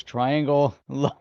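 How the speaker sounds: Triangle Lo- broken into "triangle" and "lo"; split-up pronunciation. Shown as a demonstration. Host teases co-host over the name, slowly split up. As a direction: draw out Triangle Lo- slowly as separate words.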